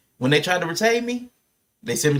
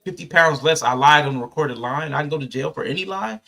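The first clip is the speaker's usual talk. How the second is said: incredulous; 3 semitones higher than usual. Retold or imitated. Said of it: "I was like".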